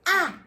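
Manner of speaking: isolated vowel "Ah" drawn out on its own; stretched middle sound. Shown as a demonstration. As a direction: sound out the "Ah" from hat. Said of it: "What middle sound?".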